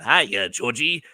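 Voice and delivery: slow, lightly voiced creepy clown greeting; a hint of Tim Curry's clown; Pennywise. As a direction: lure a child like a sinister clown. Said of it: "like Tim Curry's Pennywise".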